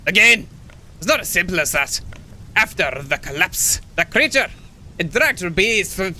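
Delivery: struggling, put-on Scottish; old hermit in a badly done Scottish accent; failed Scottish accent. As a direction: attempt Scottish and miss. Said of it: "oh God, I can't do the Scottish accent".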